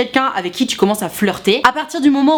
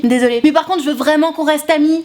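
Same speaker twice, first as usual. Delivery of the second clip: mimicking the girl; 5 semitones higher than usual. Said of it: "elle te dit".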